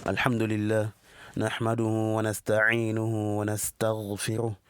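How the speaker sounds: even, level recitation in measured phrases; formal Arabic opening invocation. Acted. Teacher opening his class with the Arabic praise formula, solemn level recitation. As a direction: recite a memorised sermon preamble, steady and unvaried.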